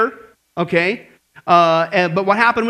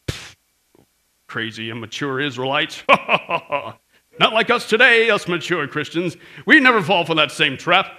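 smug mockery; 4 semitones lower than usual. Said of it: "that's how we walk around and talk".

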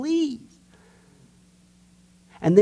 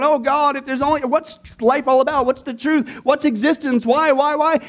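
mock anguished plea; 4 semitones higher than usual. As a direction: ham up a seeker's desperate cry. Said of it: "crying big alligator tears".

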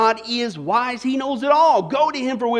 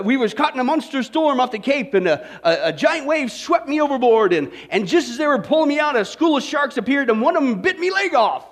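lightly voiced pirate spinning a yarn; a hint of old sea-dog storyteller; pirate telling tales; 3 semitones higher than usual. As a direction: tell it as a mock pirate, lightly put on. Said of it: "He says, uh".

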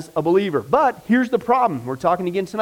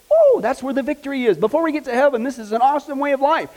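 joyful preaching lift; 6 semitones higher than usual. Real, not acted. Preacher rejoicing about victory.

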